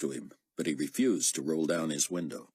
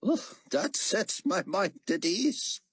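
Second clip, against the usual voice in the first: sarcastic; 14 semitones higher, slower than usual. A narrator's reading. Dry reply to "scared.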